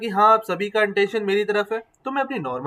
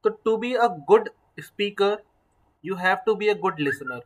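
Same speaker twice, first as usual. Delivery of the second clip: 1 slow emphatic maxim; much slower than usual. Acted. Teacher stressing a key maxim.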